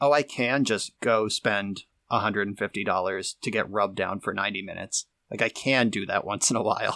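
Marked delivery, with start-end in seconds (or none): none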